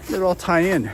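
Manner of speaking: breathless from the uphill hike; puffing between words after climbing; out of breath. Real, not acted. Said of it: "Whew, I'm already out of breath".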